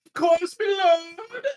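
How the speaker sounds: high, eager servant voice; obsequious. Acted. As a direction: fawn over your master.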